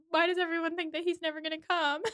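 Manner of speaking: high, fast wounded protest; offended. Retold or imitated. Mister Weston protesting to Emma, high and fast. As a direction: take it personally, squeaky and quick. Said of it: "takes this really personally".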